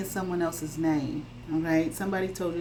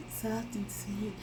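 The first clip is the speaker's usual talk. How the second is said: breathy little hush, sugary soft; soft sweet voice; 3 semitones higher, 9 dB quieter, slower than usual. Retold or imitated. Imitating a fake-innocent person, soft and sweet. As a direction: coo it softly like a sweet innocent. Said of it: "you know, talk like that".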